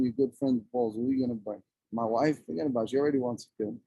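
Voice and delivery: ordinary delivery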